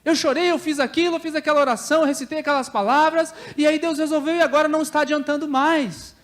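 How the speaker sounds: high-pitched whining protest; mock tearful complaint. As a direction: imitate crying indignantly over old problems. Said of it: "você vai chorar pelos mesmos problemas".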